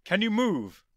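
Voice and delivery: high, loud urgent question; urgent shout. Acted. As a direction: call out across space. The Doctor calling to K9.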